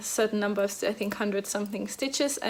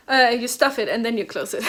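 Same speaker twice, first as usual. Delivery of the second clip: laughing; 6 dB louder than usual. Real, not acted. Laughs at own slip.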